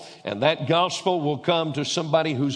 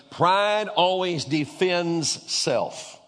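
slow emphatic; 3 semitones higher, much slower than usual. Real, not acted. Preacher slows for emphasis.

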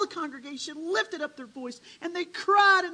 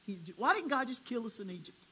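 crying out; 7 dB louder than usual. Retold or imitated. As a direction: swell into a desperate outcry. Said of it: "rose up and cried and said".

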